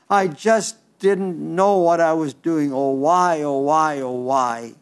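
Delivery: grieving, Peter mourns his failure aloud; pleading oh why, oh why in regret; Peter's remorseful lament. Retold or imitated. Preacher voices Peter thinking to himself, remorseful. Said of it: "he's thinking to himself".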